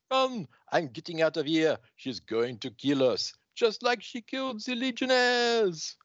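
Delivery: high, frantic fleeing cries; panicked crowd. Acted. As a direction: yell in panic while running away. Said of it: "the crowd runs".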